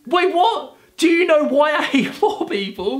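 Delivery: high, disbelieving, breaking into laughter; can't believe what you're reading; incredulous. Real, not acted. YouTuber reads AI's awful list, high laughing disbelief.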